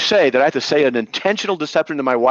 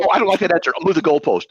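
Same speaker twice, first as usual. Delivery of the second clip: mocking opponent; 4 semitones higher, faster than usual. Mocks opponent dodging his answers.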